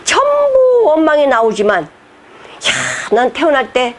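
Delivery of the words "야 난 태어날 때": bright and much higher, laughing with thanks; high, happy, laughing thanksgiving; joyful gratitude. Retold or imitated. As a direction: act out a believer overflowing with thanks. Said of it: "이렇게 하면은".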